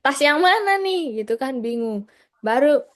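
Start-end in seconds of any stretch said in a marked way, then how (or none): 0.1-1.3 higher, puzzled question; lightly voiced puzzled young man; confused guy. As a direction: play the guy lost among three bags. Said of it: "Bang Gagah nih ceritanya".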